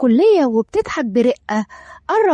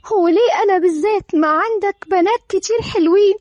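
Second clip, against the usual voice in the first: higher, distressed pleading; breaking down; 4 semitones higher than usual. Acted. Bride asks husband why her, mildly breaking down. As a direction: plead as if close to collapse. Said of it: "دارين بانهيار".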